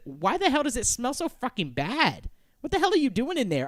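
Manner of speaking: high, loud acted outrage; angry demand. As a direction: demand an answer through the door. Acts woman angry at the smell.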